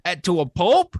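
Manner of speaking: high, loud, pleading shout for May to run; yelling at Aunt May to get out, like at the screen; frantic yelling at the screen. Retold or imitated. A fan yells at Aunt May on screen, high and panicked. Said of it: "And I'm like".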